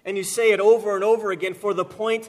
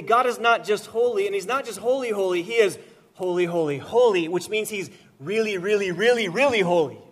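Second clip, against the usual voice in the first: preaching emphasis; 3 semitones higher, 4 dB louder than usual. Real, not acted. Preacher building emphasis on holiness.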